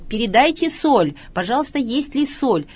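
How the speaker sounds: mock call for salt. Speaker mimics kindergarten teachers at the conference table demanding salt, mock call out. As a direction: mimic an eager diner asking for salt, lightly hammed-up. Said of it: "они стали кричать".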